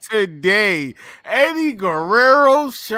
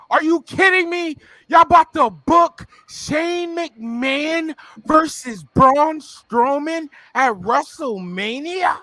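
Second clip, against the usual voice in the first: exasperated rant; 4 semitones higher than usual. Real, not acted. Ranting about WrestleMania booking.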